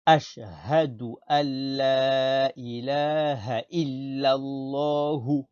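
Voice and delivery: drawn-out, chant-like Arabic recitation; slow model recitation. Shown as a demonstration. Teacher reciting the testimony for pupils, slow and measured. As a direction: recite slowly on a level tone, long vowels held. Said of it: "on ne tire pas sur hu".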